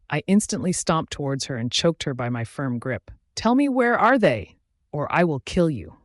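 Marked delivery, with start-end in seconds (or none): 3.3-6.0 loud, high demand dropping into a threat; threatening. A narrator's reading. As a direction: demand answers, then menace. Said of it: "I threatened".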